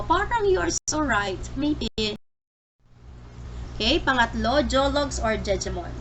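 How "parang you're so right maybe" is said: conyo voice. Retold or imitated. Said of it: "Halimbawa pa ito".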